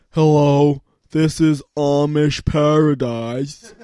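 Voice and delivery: slow, announcer-like hello; mock phone greeting. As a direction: greet the caller like a business.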